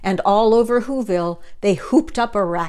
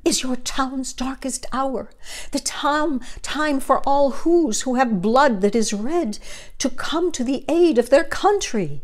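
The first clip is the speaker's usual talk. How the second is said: mayor's cry; 4 semitones higher than usual. Acted. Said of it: "cried the mayor".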